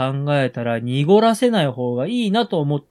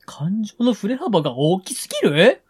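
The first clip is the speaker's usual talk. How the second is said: exaggerated mock puzzlement. Real, not acted. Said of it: "それは抑揚が大きすぎるよ。".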